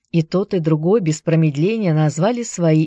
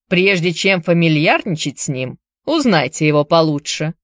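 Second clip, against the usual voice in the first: put-on Irish accent. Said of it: "с сильным ирландским акцентом".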